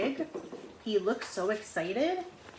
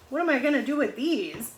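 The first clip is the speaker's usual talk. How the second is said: bewildered lemur; 5 semitones higher, 6 dB louder than usual. Retold or imitated. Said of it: "He's like".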